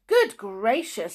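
put-on mildly astonished girl; a touch of shock. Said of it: "most astonished".

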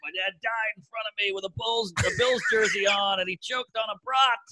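hammed-up Southern-accented grief. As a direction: play an overwrought Southern football fan. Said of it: "I gave him a Southern accent".

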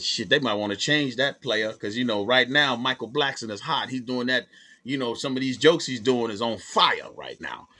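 easing into Bruce Bruce's laid-back telling; Bruce Bruce impression. Bruce Bruce telling Nick about the Baltimore lineup, lightly voiced impression. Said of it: "your Bruce Bruce impression".

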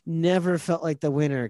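chuckling through the story; giggling while telling it; laughing. Real, not acted. Laughing at the weigh-in memory.

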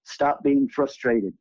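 slow, even divine voice speaking down; calm voice of God. Retold or imitated. A divine voice telling the crying speaker to stop, calm and slow. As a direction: deliver it slowly like a voice from above. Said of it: "And the voice said".

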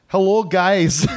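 Irish lilt sliding toward Scottish; put-on Irish accent. Host reading listener Seamus's email, put-on Irish accent. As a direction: greet them in a wobbly Irish-Scottish accent. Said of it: "sort of going towards Scottish there".

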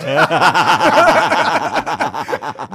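a long real burst of laughter; hearty laugh rising at the end; loud laugh. Real, not acted. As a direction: let the laugh roll out loud.

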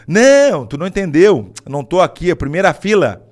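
retold loud insisting. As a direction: insist hard that you're front row. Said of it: "daí eu mudei de ideia".

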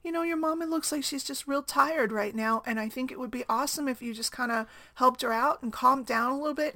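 a hint of a sweet stranger talking a child down; soothing stranger. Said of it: "really soothingly talked to my son".

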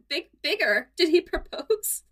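loud, high mock excitement; excited gasp. Indy asks Ekin about the date, excitedly. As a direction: gasp at the big news. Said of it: "And Indy was like".

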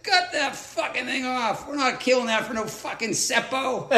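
lightly put-on rough Aussie bloke; retelling the insult with a chuckle; gruff Aussie skipper. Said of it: "He's like".

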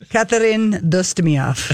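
put-on slow, lightly Russian-accented name. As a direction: attempt a French maid but slip into Russian accent. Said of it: "you're still doing it with a Russian accent".

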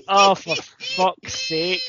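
slow, drawn-out groaned curse; cringing embarrassment. Retold or imitated. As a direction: die of embarrassment on every word. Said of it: "cringing and absolutely dying with embarrassment".

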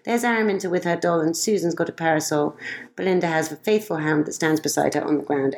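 lilting rhymed storybook reading; reading verse aloud. Acted. Mother reading a rhyming poem to a friend, lilting. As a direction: read the couplets to a child with a gentle bounce.

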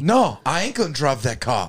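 put-on lightly done Boston accent; half-convincing Boston accent; Mark Wahlberg impression. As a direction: take a stab at a Boston tough guy's accent. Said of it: "That's a Mark Wahlberg impression".

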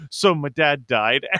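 slow, deflated party-killer delivery; mock downer. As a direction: imitate a glum guest dropping bad news. Party guy arrives with bad news.

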